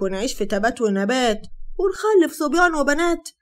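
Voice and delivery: loud, sneering scorn; mock her dreams; loud scornful mockery. Hatem to Sara, loud and scornful.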